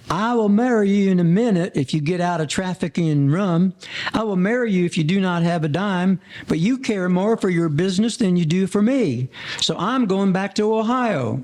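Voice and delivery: a hint of the girlfriend giving her ultimatum; quoting Miss Mary. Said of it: "she says".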